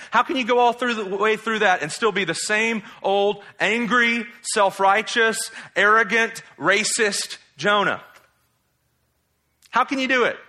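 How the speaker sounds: high, incredulous confrontation; exasperated rebuke. Pretend. Preacher scolding unchanged Jonah, exasperated and incredulous. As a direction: pile up the accusations in disbelief.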